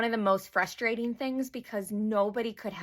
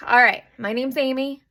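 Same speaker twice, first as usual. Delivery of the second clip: louder, bolder second intro; confident, louder retake; 3 semitones higher, 6 dB louder than usual. Shown as a demonstration. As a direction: announce your name like you mean it. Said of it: "Okay, here we go".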